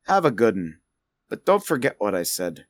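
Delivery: put-on intentionally terrible accent; parting advice in a deliberately bad accent; Grimnir. Grimnir bidding farewell at the bar, bad put-on accent. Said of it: "Grimnir's accent is terrible".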